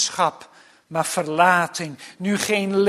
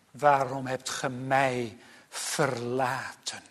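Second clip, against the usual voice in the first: zachte, lage klacht; ingehouden klacht; 4 semitones lower, 6 dB quieter than usual. Retold or imitated. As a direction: spreek het ingetogen uit. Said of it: "geperst uit zijn heiligheid". (ingehouden klagende vraag)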